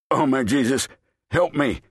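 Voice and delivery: put-on old man sobbing a loud prayer for help; weeping cry. A narrator's reading. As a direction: cry out to Jesus through tears. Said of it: "The old man wept".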